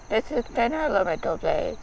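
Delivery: flat robotic sign-off voice. Acted. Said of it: "That's its robot voice".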